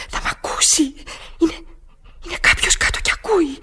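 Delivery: whispered fear; scared whisper. Acted. Woman explains to the operator she can't speak up, whispering. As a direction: keep it under your breath. Afraid intruder hears her.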